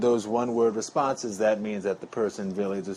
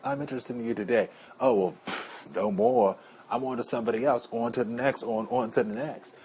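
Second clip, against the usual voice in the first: light mock New York accent; a hint of a brash New Yorker. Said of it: "like my little fake New York accent".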